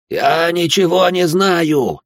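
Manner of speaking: протяжный крик высоко и громко, медленно; вытягивай каждое слово в крике; отчаянный крик. Acted. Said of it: "закричал тот". (пытаемый снова кричит монахам, отчаянно и громко)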